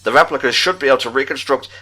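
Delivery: measured, even read-aloud of a diary entry; reading a report. Acted. Reading the secret report aloud to his co-host, measured and even. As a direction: read it like a scholar's private log.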